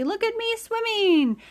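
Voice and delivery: high squeaky little voice; squeaky Roo. A narrator's reading. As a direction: squeak it like a tiny joey. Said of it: "still bubbling proudly".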